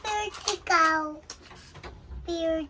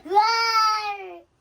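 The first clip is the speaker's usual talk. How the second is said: loud drawn-out dinosaur roar; huge fiery dragon roar; 2 semitones higher, 8 dB louder than usual. Pretend. Child playing dinosaur roaring.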